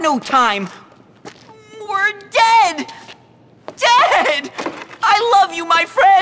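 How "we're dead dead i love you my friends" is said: melodramatic panic. Acted. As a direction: ham up the end of the world. Nerd panics before attack.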